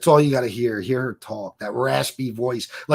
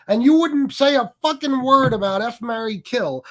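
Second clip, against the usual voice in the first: higher and louder, accusing; heated rant; 8 semitones higher, 6 dB louder than usual. Real, not acted. Streamer angrily calls out critics' double standard, higher and louder. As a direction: jab the accusation at them.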